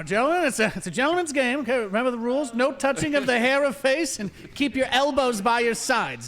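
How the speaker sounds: high, loud ring referee pep talk; boxing referee. Pretend. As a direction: announce the rules like a fight referee. Mock referee giving fight rules.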